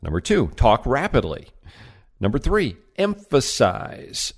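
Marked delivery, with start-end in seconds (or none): 2.9-4.3 emphasize drawn out slowly with weight; emphasized word. Shown as a demonstration. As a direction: lean on emphasize and stretch it. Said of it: "Stress words that are important".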